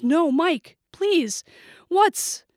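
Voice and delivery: high, desperate pleading; frightened plea. A narrator's reading. Student pleading with the armed shooter, frightened.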